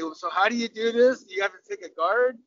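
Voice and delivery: mock-naive questions, pitch lifting; feigned innocent asking; playing silly. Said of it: "go out there and be s-, silly".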